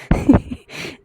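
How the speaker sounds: breathy teasing chuckle; short mock laugh. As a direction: laugh at her mockingly. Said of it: "ऐसे बोलते हुए".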